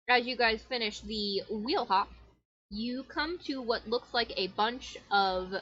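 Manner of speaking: eating while talking; mouth full. Real, not acted. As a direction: talk through a mouthful. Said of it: "I'm hungry, so I'm eating".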